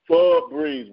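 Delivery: "Febreze" with a heavy first syllable; imitated stress on FE. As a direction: mimic "Febreze" by leaning on "Fe". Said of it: "he emphasizing the pho".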